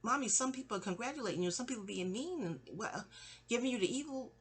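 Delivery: lightly voiced little girl asking; a hint of a puzzled child. Little girl asking Mommy, lightly childlike puzzlement. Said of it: "But I'm like".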